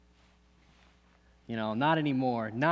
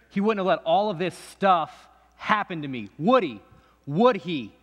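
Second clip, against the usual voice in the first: louder, punching each question; bitter challenge; 3 semitones higher, 5 dB louder than usual. Acted. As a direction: throws it up at God.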